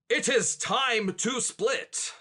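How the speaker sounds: slow, formal knight's version of the line; knight saying it. Acted. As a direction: say it like the solemn knight. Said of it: "No, that's not right".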